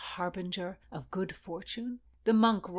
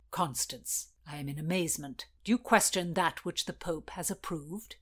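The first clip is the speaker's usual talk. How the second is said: sharp. Acted. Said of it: "A sharp voice".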